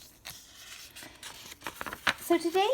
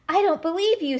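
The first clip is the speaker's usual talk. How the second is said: higher, louder accusing cry; mock scream; 9 semitones higher, 4 dB louder than usual. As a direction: shout your disbelief. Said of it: "screamed the six-foot monster".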